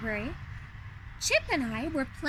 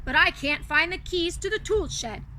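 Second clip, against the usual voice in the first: grumpy Beast; 2 semitones higher than usual. Acted. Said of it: "he said grumpily".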